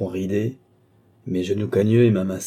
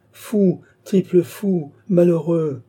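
high, loud rebuke; acted outburst of indignation; exasperated scolding; 9 semitones higher, 4 dB louder, slower than usual. A narrator's reading. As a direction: hurl insults in exasperation. Uncle scolding his reluctant nephew.

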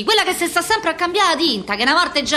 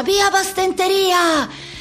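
slow sign reading; 4 semitones higher, much slower than usual. Retold or imitated. Reading hospital sign slowly.

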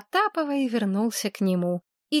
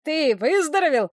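excited; 4 semitones higher than usual. A narrator's reading. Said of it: "взволнованный голос Кузи".

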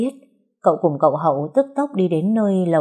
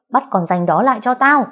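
higher, louder shout to the servants; calling out loud; 6 semitones higher, 4 dB louder than usual. Acted. Young master shouting for servants to catch her. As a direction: bellow the order across the house. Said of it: "gọi lớn người ở bên ngoài".

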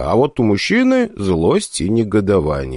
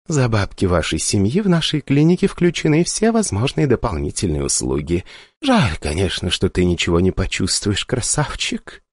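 sultry voice. Acted. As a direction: purr it seductively. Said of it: "томным голосом".

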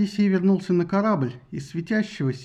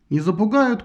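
defiant shout; 3 semitones higher than usual. Acted. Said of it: "кричал он".

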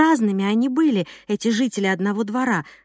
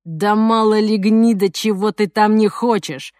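louder furious thug outburst; angry exclamation; 4 dB louder than usual. Acted. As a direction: blurt it out louder in rage. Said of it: "воскликнул Жох".

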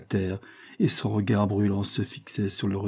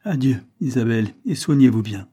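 a touch of icy finality, louder; icy energy; 4 dB louder than usual. Acted. Levison leaving Isabel for good, icily firm. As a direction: say goodbye with cold resolve. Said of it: "avec une énergie glaciale".

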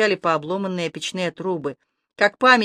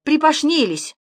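put-on lisping old woman; 8 semitones higher than usual. A narrator's reading. Toothless granny lisps.

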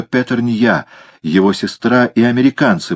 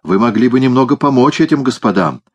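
indignant; 5 semitones higher than usual. Acted. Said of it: "возмутилась прислуга из бистро".

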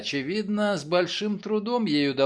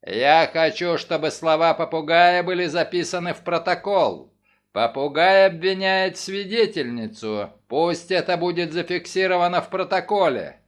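dramatic tone; 4 dB louder than usual. Acted. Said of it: "тем же драматическим тоном".

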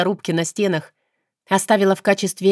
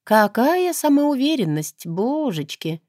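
irritated scoff; 6 semitones higher, slower than usual. A narrator's reading. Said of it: "раздражённо поморщилась".

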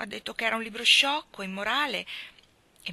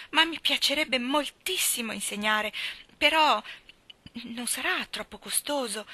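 excited; 3 semitones higher than usual. Acted. Anna thrilled about the Academy.

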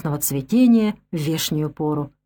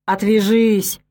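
weary snap; slower than usual. A narrator's reading. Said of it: "устало огрызнулся Степан".

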